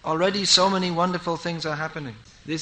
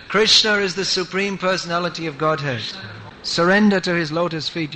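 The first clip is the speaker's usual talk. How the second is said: louder, forceful preaching; emphatic proclamation; 4 dB louder than usual. Real, not acted. Preacher to devotees on surrendering to Krishna, emphatic proclamation. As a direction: proclaim it firmly to the congregation.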